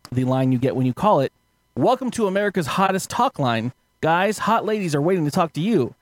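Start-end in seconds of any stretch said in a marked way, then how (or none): 1.8-5.9 phone menu voice. Retold or imitated. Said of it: "I'll just read the quote for the line".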